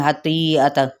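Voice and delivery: خطیئتن gabbled quickly, hamza swallowed; rushed wrong way. Shown as a demonstration. Teacher shows students the wrong rushed reading. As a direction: rattle off خطیئتن too fast to show the mistake. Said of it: "فٹافٹ نہیں".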